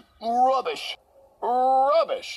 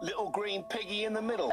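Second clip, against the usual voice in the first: teasing singsong; 5 dB quieter, faster than usual. Acted. Taunting an engine.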